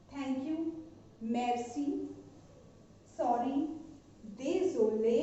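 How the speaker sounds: slow, spaced-out word-by-word drill; teacher repeating each word with long pauses; slow review. Shown as a demonstration. Teacher reviewing the five words slowly with students. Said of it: "एक बार और हम इसको repeat".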